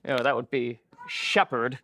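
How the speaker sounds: "shepherd" said SHEP-herd, first syllable stressed. Shown as a demonstration. Teacher showing natural word stress of "shepherd" to students. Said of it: "say I've got the word shepherd".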